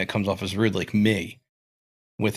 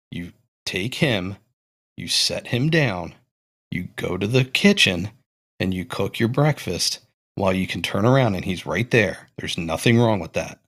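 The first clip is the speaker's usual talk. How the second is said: condescending tone. Retold or imitated. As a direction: patiently lecture her like she can't cope. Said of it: "I'll do my best impersonation of it".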